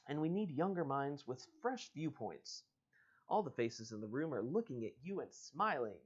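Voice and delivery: reading the book's dialogue aloud; story reading. Acted. Host reading a choose-your-own-adventure to listeners, storyteller voice. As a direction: read it like an adventure book. Reads to the ending.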